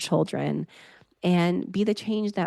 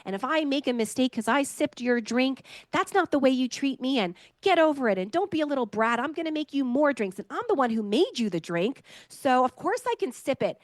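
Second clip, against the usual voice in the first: higher-pitched mock scold of a child; mother scolding her small son, pitched up; mock scolding parent; 6 semitones higher than usual. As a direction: play the blaming parent, lightly hammed. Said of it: "not blaming".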